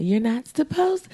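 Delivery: put-on high, slow whiny kid; annoying kid. Annoying kid scolding cousin, high and slow. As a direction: nag like an annoying schoolkid. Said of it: "That last "you're not supposed to" reminded me of, like, annoying kids".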